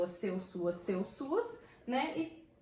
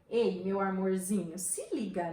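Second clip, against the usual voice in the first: slow mock-sweet call to attention; demonstrated sarcasm, falsely affectionate; ironic endearment; 3 semitones lower, slower than usual. Shown as a demonstration. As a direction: stretch the pet name with irony.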